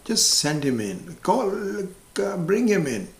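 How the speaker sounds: a hammed-up confident salesman doctor; eager psychiatrist. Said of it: "So they said".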